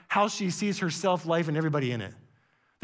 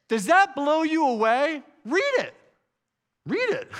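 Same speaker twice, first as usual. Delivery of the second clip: urgent exclamation; 6 semitones higher, 4 dB louder than usual. Real, not acted. Preacher urging the congregation.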